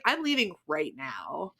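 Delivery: low, slow, deliberate exit line; firm refusal. Acted. Musician walking out of an offensive venue, firm.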